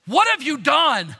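acted flash of anger; tense rage. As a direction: demand it like an enraged governor. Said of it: "the tension or even the rage in Pilate's voice".

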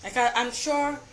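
annoyed stammer with repeated false starts; tripping over words. Real, not acted. Ranter too annoyed to speak smoothly, stammering. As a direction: stumble over the opening words, irritated. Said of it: "I'm tripping over some of my words".

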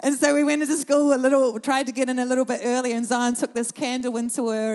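real crying breaking into the words; choked up. Real, not acted. Mother moved to tears recounting the teacher's grief, crying. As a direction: voice catching with tears while telling it. Tearful telling of candle story.

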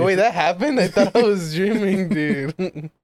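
surprised. Retold or imitated. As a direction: react as if just waking to it. Surprised self-quote.

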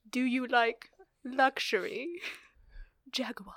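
ooze luxury, then whisper the brand; comedy sketch guy. Acted. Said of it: "this guy is like".

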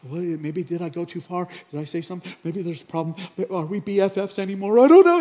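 spiral into worry until it bursts; hammed-up anxious spiral; mock panic. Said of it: "you're just like".

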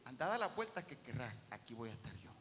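lightly voiced patient Lord. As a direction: reassure without hurry. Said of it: "dice el Señor".

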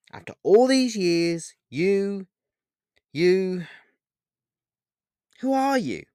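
high, anguished pleading with halting breaks; tearful. A narrator's reading. Paul asks who Pan really is, tearful and high. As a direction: plead through tears, faltering then rising high. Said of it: "asked Paul with tears in his eyes".

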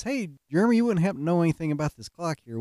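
lightly voiced knowing boss; sly boss. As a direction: boss questioning the prankster, falsely innocent and fast. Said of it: "her boss says".

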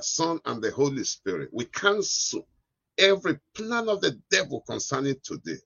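fervent preacher's prayer; praying. Real, not acted. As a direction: pray it out with rising fervour. Leads a closing prayer.

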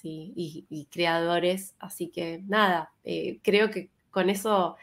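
tired voice slowing down; running out of voice, slow; voice giving out. Real, not acted. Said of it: "me estoy quedando sin voz".

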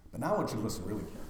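rushed, very fast; quick aside. Real, not acted. Preacher to mourners hurrying the aside, very fast. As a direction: rattle it off.

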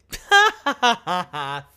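loud gloating burst of laughter; a real gloating laugh; gleeful laugh. Real, not acted. Laugh after the ruling news.

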